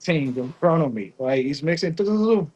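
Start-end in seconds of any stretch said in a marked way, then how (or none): 1.9-2.5 drawn-out, punchy boom sound effect; imitated boom. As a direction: mimic a sudden burst with a boom. Imitating mixer bursting.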